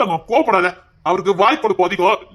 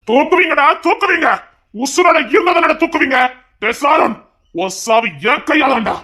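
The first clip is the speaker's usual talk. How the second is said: angry shout; 5 semitones higher than usual. Acted. Threat over taking the child.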